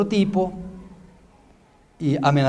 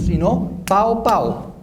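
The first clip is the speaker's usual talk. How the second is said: put-on slow, playful warning to a kid; mock scolding child; 3 semitones higher, much slower than usual. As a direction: threaten a spanking, half joking. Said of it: "como le dice uno a los niños". (advertencia lenta y juguetona a un niño)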